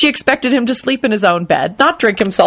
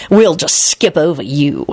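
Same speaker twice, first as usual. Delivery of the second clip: snarled; 3 semitones lower than usual. Acted. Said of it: "he snarled".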